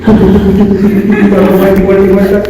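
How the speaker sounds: slow laughing "vuelta y vuelta y vuelta", stretched; giggling as you spin the words out slowly; laughing, drawn out. Real, not acted. Describes spinning nonstop in the spirit. (riendo, alargando "vuelta y vuelta y vuelta")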